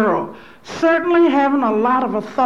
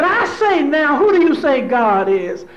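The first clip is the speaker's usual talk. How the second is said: preacher's call; 3 semitones higher, 4 dB louder than usual. Retold or imitated. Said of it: "He said".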